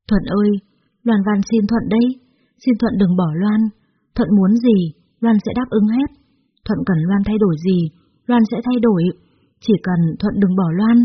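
mild acted pleading; tearful begging. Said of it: "khóc lóc van xin năn nỉ Thuận". (van xin năn nỉ nhẹ nhàng)

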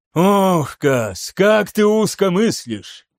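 a mild hammed-up exclamation at a narrow-minded colleague; exasperated exclamation. A narrator's reading. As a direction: sigh out his frustration theatrically. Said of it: "воскликнул он".

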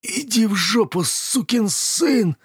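choked bully hissing at his attacker; hissed curse. A narrator's reading. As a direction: spit it out through the choke. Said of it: "отчего Клив прошипел".

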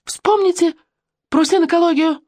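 very high shriek for silence; sudden scream. A narrator's reading. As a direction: scream to cut through everyone. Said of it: "заорала вдруг Оля".

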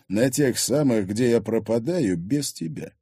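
composed, measured reply; unruffled. Acted. Husband answering jealous wife, unruffled. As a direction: answer evenly without taking the bait. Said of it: "говорил абсолютно невозмутимо".

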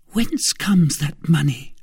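high, slow questioning voice; suspicious wife. Acted. Wife asking where the money came from, suspicious. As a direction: demand an answer warily.

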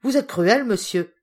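loud, high cry of reproach; indignant outcry. A narrator's reading. Mademoiselle reproaches the uncle for cruelty, crying out. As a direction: exclaim it forcefully, pitch starting high. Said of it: "s'écria à son tour mademoiselle Primrose".

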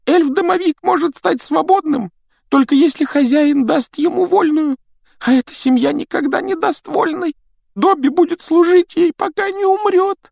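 a small timid house elf; christmas elf. Acted. Домовик Добби говорит. (писклявый голос эльфа)

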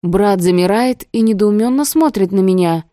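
ordinary delivery, nothing marked

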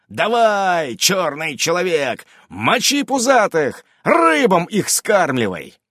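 excited cheering yell. Acted. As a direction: egg him on, yelling. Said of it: "ору мобу".

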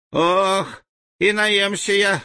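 put-on high, ringing boy's voice. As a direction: ring it out like a small boy. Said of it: "уверял мальчуган-живун звенящим голосом".

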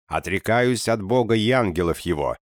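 loud, high barked vow; barking renunciation. Acted. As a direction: bark out the renunciation. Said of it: "рявкнул он".

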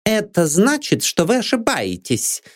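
high, gloating correction; triumphant jab. A narrator's reading. Maid Anne triumphantly corrects the detective. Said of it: "торжествующе съязвила Энн".

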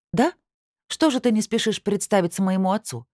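насмешливо, выше, удар на «что»; с издёвкой поддеть. Acted. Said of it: "фыркнула я насмешливо". (насмешливо фыркает, выше обычного)

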